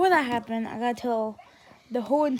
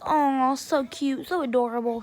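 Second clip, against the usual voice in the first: teasing coo. Retold or imitated. Teasing coo, then mimicked back.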